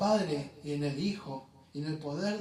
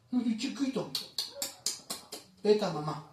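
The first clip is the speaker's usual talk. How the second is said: put-on whiny child. Preacher mocking a ten-year-old who won't wean, childish whine. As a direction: whimper like a grown kid still nursing.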